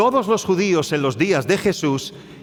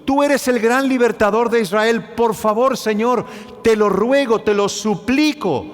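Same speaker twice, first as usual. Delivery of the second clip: pleading beggar; 5 semitones higher than usual. Acted. Preacher voices Bartimeo's desperate plea.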